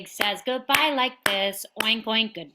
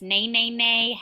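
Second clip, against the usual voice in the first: neighing like a horse; 4 dB louder than usual. Shown as a demonstration. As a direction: do the horse sound. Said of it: "Horse says hello like this".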